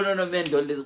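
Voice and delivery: normal talking voice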